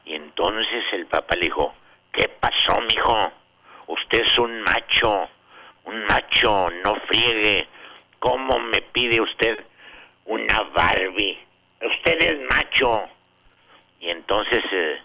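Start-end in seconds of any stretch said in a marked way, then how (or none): 2.1-13.0 mock stern father. Father scolds son in story.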